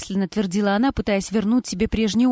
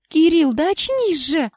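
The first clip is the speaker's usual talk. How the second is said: alarmed plea; 7 semitones higher, slower than usual. Acted. Wife shaking her husband's face, alarmed plea. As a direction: shake him awake with your voice.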